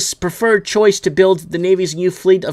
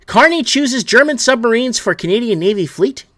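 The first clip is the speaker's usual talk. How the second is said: incredulous; 3 semitones higher than usual. Real, not acted. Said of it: "You seriously can't make this shit up".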